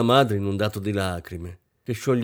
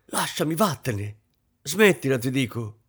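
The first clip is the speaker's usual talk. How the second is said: angry rejection; 4 semitones higher than usual. Acted. Mother pushing daughter away.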